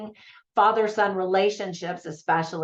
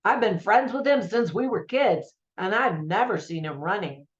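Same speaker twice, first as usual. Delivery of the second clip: put-on old New York Italian. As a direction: quote the old friend in a loose New York Italian accent. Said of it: "I don't know if that sounded like an Italian accent".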